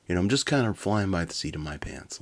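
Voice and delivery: usual speaking voice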